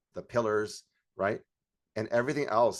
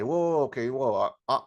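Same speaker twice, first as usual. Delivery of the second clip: taken aback; 4 semitones higher, 4 dB louder than usual. Retold or imitated. Acts taken-aback prospect.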